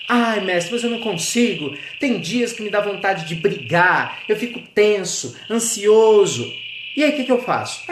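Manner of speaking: voz mais aguda de discípulo ansioso, queixoso; discípulo aflito. Acted. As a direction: implore ao mestre, mais agudo e aflito. Discípulo aflito fala ao mestre. (discípulo ansioso pedindo ajuda ao mestre, voz aguda e aflita)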